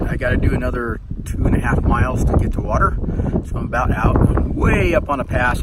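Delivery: loud over roaring wind; talking over wind. Real, not acted. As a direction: push your voice over the wind. I don't know if you can hear me with all this noise.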